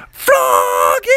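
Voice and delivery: loud, low shout of his name; a mother's shocked yell at her son; loud scolding shout of Froggy; angry shout. A narrator's reading. Mom sees the scene.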